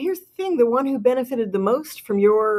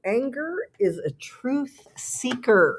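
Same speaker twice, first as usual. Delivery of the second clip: slow title read; 6 semitones higher, slower than usual. Shown as a demonstration. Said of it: "a little paragraph in here called".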